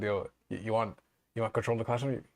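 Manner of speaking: put-on Jamaican accent. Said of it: "in a Jamaican accent".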